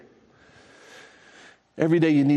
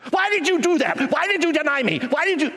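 much higher, pleading voice; impassioned questioning; 13 semitones higher than usual. Acted. Jesus asking Peter on the seashore, high pleading voice. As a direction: plead with him for an answer.

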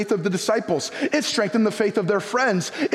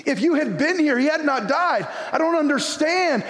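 higher, aching cry of grief; pained plea; 6 semitones higher than usual. Retold or imitated. Grieving sister asks Jesus why he came late, pained higher plea. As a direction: plead with Jesus in hurt confusion. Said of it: "you can hear that in their hearts".

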